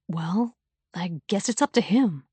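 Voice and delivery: a hint of a tired, absent father; absent-minded father. A narrator's reading. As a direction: say it without really listening.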